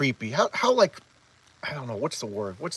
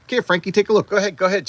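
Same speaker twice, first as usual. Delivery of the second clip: louder, higher, imitated insistence; eager urging; 6 semitones higher, 7 dB louder, faster than usual. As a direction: push an acted invitation hard. Acted eager urging to look.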